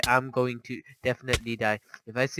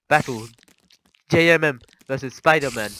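mock announcer; 3 semitones higher, 11 dB louder than usual.

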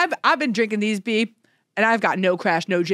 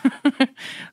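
small high giggle; little laugh; 5 semitones higher than usual. Real, not acted. Host after a joke about the apple, little giggle. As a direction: let out a sneaky little chuckle. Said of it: "don't do that little laugh".

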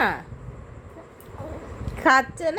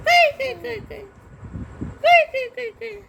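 much higher, chanted where-where-where; playful sing-song; 11 semitones higher than usual. Real, not acted. Grandparent playing hide and seek with the baby, high chant.

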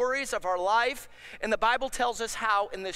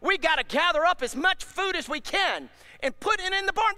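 higher, louder fretting bird voice, hammed-up; mock panicky birds; 6 semitones higher, 5 dB louder than usual. Pastor voicing birds that worry about winter, mock panic. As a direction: play a bird fussing over winter food. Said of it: "flying around freaking out".

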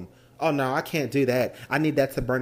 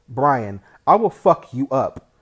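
angry threat; 8 dB louder, slower than usual. Acted. Brother threatening brother.

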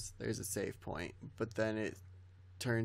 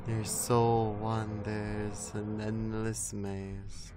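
slow dramatic read; much slower than usual. Acted. Reading game over text.

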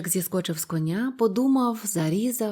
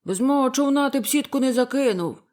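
louder, higher heated yell; angry fisherman shout; 4 semitones higher, 5 dB louder than usual. A narrator's reading. Fisherman shouting at the other over the catch, angry yell. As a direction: shout him down in the quarrel. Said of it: "Рибалки кричали все сильніше".

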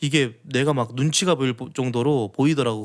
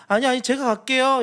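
high, eager mock insistence; hammed-up overly polite refusal; eager overpolite offer; 9 semitones higher than usual. Girlfriend insisting she fetches the side dish herself, high and eager.

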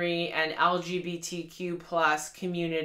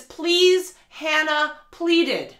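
mocking the line; 8 semitones higher, 7 dB louder, much slower than usual. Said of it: "a line in the book where it says".

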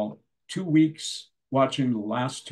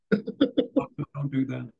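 Clinton scolding Hillary; slower than usual. Retold or imitated. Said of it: "phone her up as Bill Clinton".

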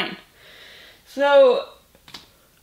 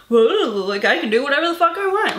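higher, louder and fast, a hammed-up carefree show-off; imitating a careless overpowered magician, higher and rushed; mock cocky boast; 4 semitones higher, 4 dB louder, faster than usual. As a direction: toss it off like a smug wizard who can do anything.

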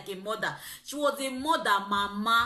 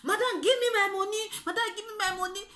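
retold pleading shout; 10 semitones higher, faster than usual. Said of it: "I see the shout".

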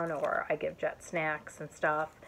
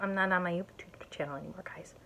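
fast embarrassed whisper; rushed whisper; 6 dB quieter, faster than usual. Real, not acted. Confessing to viewers she's rarely on YouTube, whispering. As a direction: mutter it quickly under your breath.

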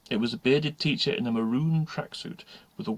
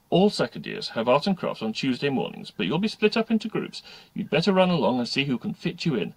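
lightly voiced instructing teacher, louder; a touch of official schoolteacher; brisk teacher; 4 semitones higher, 5 dB louder than usual. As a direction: send stray pupils on their way. Another teacher instructs the pupils.

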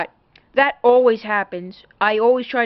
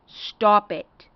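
imitating a laughing plea. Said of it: "Like, in a laughing way".

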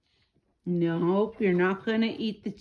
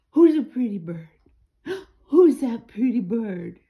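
louder sing-song bird talk; teaching a parrot; 5 dB louder than usual. Real, not acted. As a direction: coax the parrot to repeat it. Talking to the parrot.

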